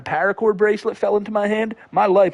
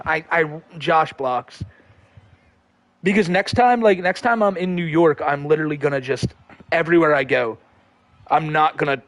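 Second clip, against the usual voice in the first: ordinary talk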